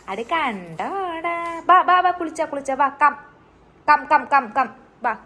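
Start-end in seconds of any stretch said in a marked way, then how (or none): 1.7-5.1 loud coaxing call. Real, not acted. Calling baby to bath.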